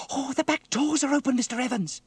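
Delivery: high-pitched, loud cry of alarm; alarmed child's cry. Acted. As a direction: cry out to warn the driver. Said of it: "Sarah cried".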